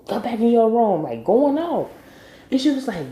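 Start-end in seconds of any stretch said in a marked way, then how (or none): 0.1-1.0 raised, higher-pitched angry order; mock yelling. Ralph Angel sending Blue to his room, mock yelling. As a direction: imitate a parent going off, a little louder. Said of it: "he started yelling at Blue".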